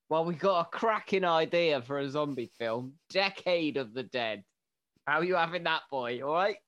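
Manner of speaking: blokey phone banter with George; phone call to George. Pretend. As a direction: play a cheeky bloke ringing his pal. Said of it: "get George on the blower".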